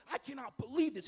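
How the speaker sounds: a touch of royal indignation, loud; mild outrage. Acted. Preacher voices the king angry at their response, mildly outraged. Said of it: "He's outraged".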